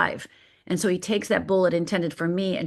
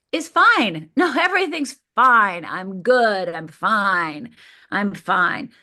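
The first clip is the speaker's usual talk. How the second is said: mock cheerful denial; 3 dB louder, slower than usual. Mocking her fake cheerful outside self.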